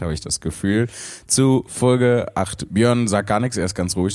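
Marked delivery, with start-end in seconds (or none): 1.3-2.7 overexcited, slow drawn-out announcement; hyped up and giddy; too much caffeine. Real, not acted. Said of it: "Wir sind ein bisschen überdreht".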